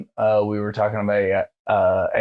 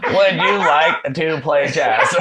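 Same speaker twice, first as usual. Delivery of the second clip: slow, higher computer voice; old speech synthesizer; 6 semitones higher, 4 dB louder, slower than usual. Retold or imitated. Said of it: "that old computer movie".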